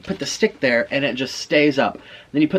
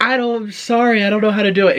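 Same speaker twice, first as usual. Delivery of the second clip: high, louder mock apology; imitated giggly helplessness; 8 semitones higher, 4 dB louder than usual. Friend apologizing to police officers, high imitated helplessness. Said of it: "she starts laughing like".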